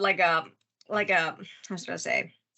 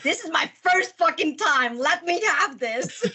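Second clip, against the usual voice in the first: higher, slow pleading; pleading whine; 7 semitones higher, slower than usual. Retold or imitated. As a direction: beg to keep it. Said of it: "And I'm like".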